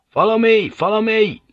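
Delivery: very high, half-strangled shouting. A narrator's reading. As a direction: shout as if your voice is choking you. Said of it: "he shouted, his voice almost strangling him".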